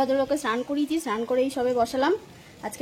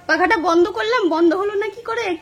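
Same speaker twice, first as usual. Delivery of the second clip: higher, louder mock of a confused husband; imitating sleepy husband; 7 semitones higher, 5 dB louder than usual. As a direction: act out his puzzled sleep-talk about the fan. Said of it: "কি সব বলছে". (ঘুমের ঘোরে বিভ্রান্ত স্বামীর নকল, উঁচু গলায়)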